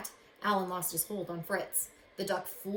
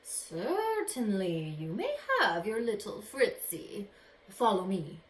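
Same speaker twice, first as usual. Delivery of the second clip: slow, smooth magician voice; a lightly voiced sly magician; 3 dB louder, slower than usual. Magician granting the boy his dog, slow and smooth.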